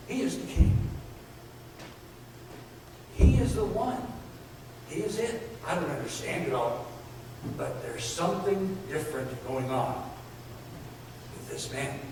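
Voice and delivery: softly, in wonder; hushed awe. Retold or imitated. The thief on the cross in hushed awe. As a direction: confide it almost breathlessly.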